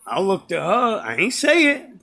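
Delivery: ordinary delivery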